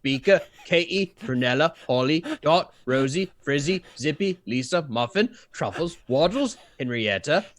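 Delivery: calling out names to the flock, loud and brisk; a farmer shouting roll call across the yard. Acted. Farmer calls roll to chickens, loudly. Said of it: "I'm like".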